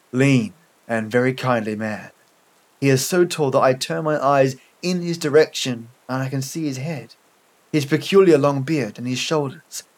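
measured, sombre story reading; story narration. A narrator's reading. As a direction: read it as a bleak first-person tale, pausing between phrases.

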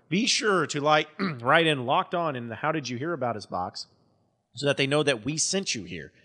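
upbeat podcast sponsor read. Acted. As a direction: sell it to the listeners with punchy emphasis. Reads a sponsor ad.

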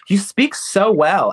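slow, drawn-out patronizing praise; mock condescension. Mocking white people's praise, slow and patronizing. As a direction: stretch it like a patronizing stranger. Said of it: "They don't expect us".

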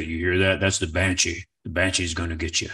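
deep-voiced great-uncle. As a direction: drop low to warn the kids. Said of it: "had a deep voice like this".

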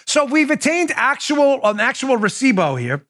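deliberately poor New York accent; bad New York accent. Shown as a demonstration. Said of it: "I'll say it in my worst, uh, New York accent".

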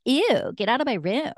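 high, playful ew; joking protest. Retold or imitated. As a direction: tease someone out of your room. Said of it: "joking around with my boyfriend".

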